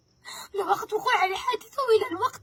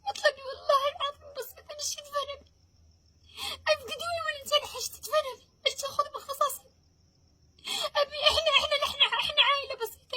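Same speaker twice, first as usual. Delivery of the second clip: crying, raised and pleading; tearful pleading; 5 semitones higher than usual. Real, not acted. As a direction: plead through tears for your father. Grieving daughter pleads for justice.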